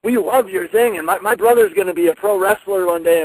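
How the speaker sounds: a big welcoming boss yelling hello; playing Vince as loud and jovial; Vince's hearty reply. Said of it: "And he yelled".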